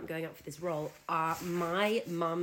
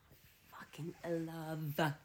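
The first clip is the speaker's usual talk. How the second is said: whisper; much slower than usual. Real, not acted. Gushing aside about the accent.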